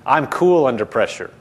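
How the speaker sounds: "I'm cool under pressure" said low and firm; low, assured "I'm cool under pressure"; emphatic declaration. Shown as a demonstration. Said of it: "say even more emphatically".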